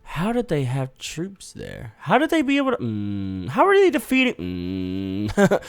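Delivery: can't believe what the map shows; baffled disbelief. Real, not acted. Losing battle, baffled.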